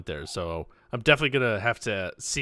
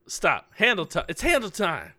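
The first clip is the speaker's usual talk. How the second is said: higher, lively announcer call; excited announcer; 6 semitones higher than usual. Shown as a demonstration. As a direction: announce it with gusto. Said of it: "that's a lot of feeling".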